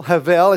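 "Havel" landing hard on -VEL; stress on last syllable. Shown as a demonstration. Preacher models the Hebrew word for the congregation, "Havel" stressed on the last syllable. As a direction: punch the second syllable of "Havel". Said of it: "You're gonna emphasize the last, uh, syllable".

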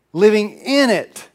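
Living IN it, a firm corrective stress. Shown as a demonstration. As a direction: lean on in to correct yourself. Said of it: "more accurate to say we need help living in it".

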